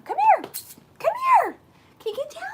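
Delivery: very high, loud pleading call; high pet voice. Real, not acted. Owner begging her puppy off the bed in a high pet voice. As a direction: squeak it up high to coax the dog.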